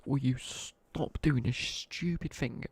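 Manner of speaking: imitating an exasperated teacher, drawn out; slow, mock-exasperated telling-off; retold teacher scolding. Teacher comes over to pupils playing human Jenga, mock exasperated.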